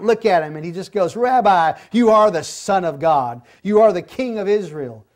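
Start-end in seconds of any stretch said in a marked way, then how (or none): 1.1-5.0 louder, awed outburst of faith; overwhelmed confession. Acted. Nathanael confessing to Jesus, louder and awestruck. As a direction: blurt it out as if knocked off your feet. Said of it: "Nathanael just bottoms out".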